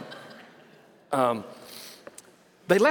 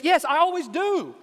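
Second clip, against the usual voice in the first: retold exasperation; 6 semitones higher than usual. Dad snaps back at daughters' nagging.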